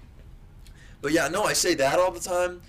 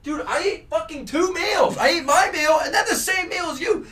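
indignant rant; 7 semitones higher than usual. Real, not acted. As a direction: rant in exasperated disbelief, voice pitched up. Ranting about waitress who upsold meal.

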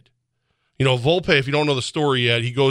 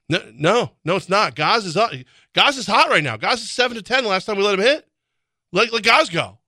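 higher-pitched, urgent pleading; acted insistent protest; 7 semitones higher than usual. Someone pleading to let the hitter bat, mock exasperated. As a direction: argue back excitedly, pitch climbing as you go. Acted dugout argument against analytics.

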